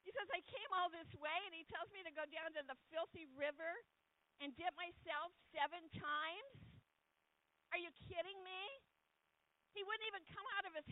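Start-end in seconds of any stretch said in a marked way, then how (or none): 0.3-8.6 a hint of an outraged captain, a bit higher; indignant retelling of a proud man; mildly mock furious; raging captain. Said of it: "He got to raging".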